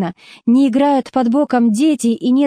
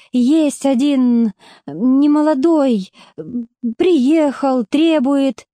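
breaking into tears; 4 semitones higher, much slower than usual. Acted. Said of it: "и не выдержала таки, расплакалась".

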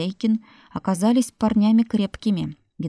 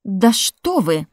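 slow, loud shriek; 6 dB louder, slower than usual. Acted. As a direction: shriek it out in outrage. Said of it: "взвизгнула Марфа".

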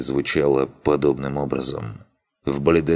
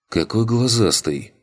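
насмешливо; 7 semitones higher than usual. A narrator's reading. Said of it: "парировал Арлинг".

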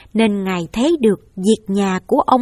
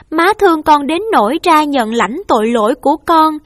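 higher, raised voice, begging through tears; tearful pleading; 5 semitones higher, 4 dB louder than usual. Acted. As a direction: beg your mother to let you take the blame. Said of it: "ôm mẹ khóc và nói".

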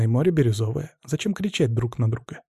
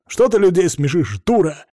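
angry yelling; 4 semitones higher, 4 dB louder than usual. Acted. Husband keeps yelling at wife.

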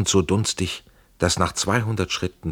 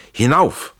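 high, loud urging cry; shouted command; 9 semitones higher, 6 dB louder than usual. A narrator's reading. Schell urges his friend up the rampart, shouted command. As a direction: shout the order upward. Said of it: "schreit Schell".

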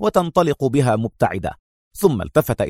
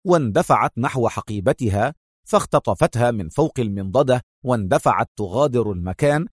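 plain reading voice

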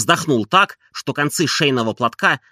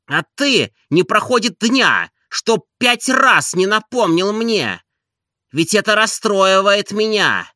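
reproachful master; 6 semitones higher than usual. A narrator's reading. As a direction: play the wronged invalid master. Oblomov reproaching Zakhar.

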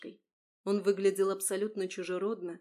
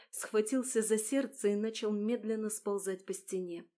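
plain reading voice

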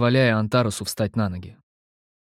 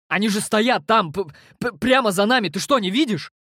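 panicked stammer; 10 semitones higher than usual. A narrator's reading.

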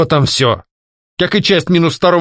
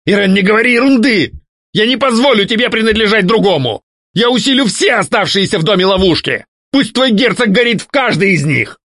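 much higher, raging threats; ghost's jealous rage; 12 semitones higher than usual. A narrator's reading. Ghost threatening the duke out of jealousy, much higher rage. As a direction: spit threats at the rival.

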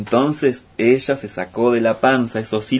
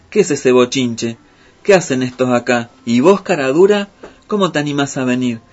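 angry scolding; 2 semitones higher, 4 dB louder than usual. Acted. Spider scolds the fox and crowd.

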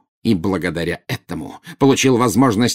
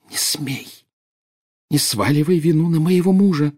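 high-pitched, venomous warning; deadly malice; 8 semitones higher than usual. A narrator's reading. Narcissa defending her husband from her sister, deadly malicious. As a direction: hold in the fury, warn them off. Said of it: "тихим голосом, полным смертельной злобы".

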